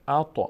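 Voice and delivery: ات with a small echo on the heavy t; slightly bouncing t. Shown as a demonstration. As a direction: bounce the stop at the end of ات lightly. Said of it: "مقداری تا میلرزه".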